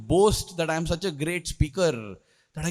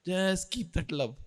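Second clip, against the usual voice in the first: slow, soft, loving words; tender blessing; 5 dB quieter, slower than usual. Retold or imitated. Swami blessing his devotee, tender and slow. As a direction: give it like a gentle blessing. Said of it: "patted me on my cheek and said".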